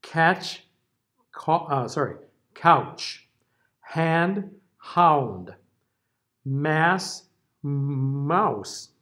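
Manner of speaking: pairs read so the plain vowel and ow glide differ; careful demo pairs; contrast word list. Shown as a demonstration. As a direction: read each pair to show ah versus ow. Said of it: "a little compare and contrast here".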